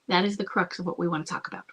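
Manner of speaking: hushed whisper on the key point. Real, not acted. Coach to a listener, whispering the main point. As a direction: lean in and whisper the crux.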